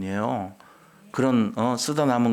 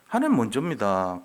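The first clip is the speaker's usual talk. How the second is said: normal talking voice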